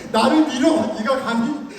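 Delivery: mock fury at being pushed; mock outrage. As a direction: play the insulted officer, half laughing. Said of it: "제 안에서 분노가".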